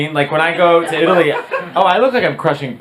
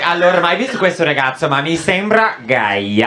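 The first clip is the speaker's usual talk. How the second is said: Italian gossip. Retold or imitated. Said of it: "You'll just hear like".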